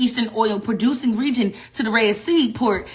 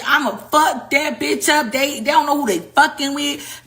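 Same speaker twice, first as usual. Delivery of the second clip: slow, higher mock-angry threat; fussing and cussing; 4 semitones higher than usual. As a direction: ham up a fuming threat, slowly. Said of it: "doing all this fussing".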